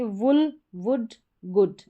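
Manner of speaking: वुल, वुड, गुड with a short "u"; short "u" sound. Shown as a demonstration. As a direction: keep the vowel brief in वुल, वुड, गुड. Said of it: "short sound है".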